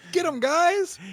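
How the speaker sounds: high gleeful cheer; cheering from safety. Retold or imitated. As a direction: egg them on from afar.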